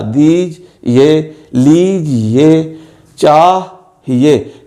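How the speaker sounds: "देख ये" and "दीज ये" each said very slowly in two parts; slow syllables. Shown as a demonstration. Teacher reading example words to students in slow syllables. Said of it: "ये से पहले हे की आवाज़ है".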